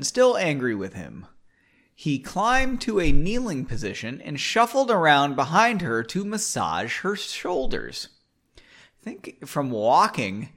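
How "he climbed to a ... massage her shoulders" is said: story narration. A narrator's reading. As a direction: draw out the phrases as you narrate. Reads the novel aloud.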